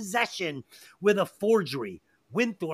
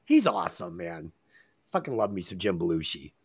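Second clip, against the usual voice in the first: much lower, a bit faster dopey bro voice; put-on deep goofy voice; 13 semitones lower than usual. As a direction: drop into a deep goofball voice to rave about Belushi. Goofy voice after praising Belushi.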